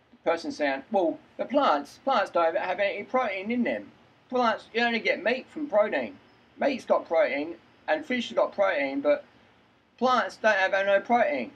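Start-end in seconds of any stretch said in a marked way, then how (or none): 0.9-9.2 Cockney-voiced sceptic; Cockney accent. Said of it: "Doing my best Cockney accent". 10.0-11.5 slow, higher-pitched mock Cockney; exaggerated Cockney objection; Cockney accent. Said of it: "Doing my best Cockney accent".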